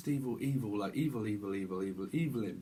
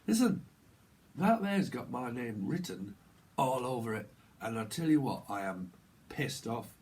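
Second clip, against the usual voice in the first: northern English grumble, trailing lower; northern accent; 3 semitones lower than usual. Acted. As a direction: put on a northern accent, spelling out the complaint. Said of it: "I'm just gonna speak northern".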